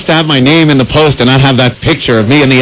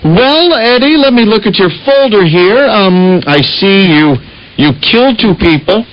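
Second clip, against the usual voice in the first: lightly voiced gatekeeper at heaven's gate, higher; a hint of a cheery saint at the gates; St. Peter voice; 5 semitones higher than usual. St. Peter greeting Eddie at heaven.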